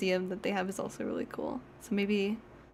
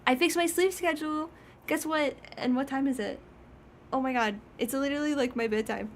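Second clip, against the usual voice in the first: cat's voice; 5 semitones higher than usual. Pretend. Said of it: "He's like".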